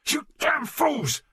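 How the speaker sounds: high, loud, drawn-out angry shout; enraged yell, each word stretched; furious snarl. A narrator's reading. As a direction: snarl it slowly at the top of your voice. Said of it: "he snarled".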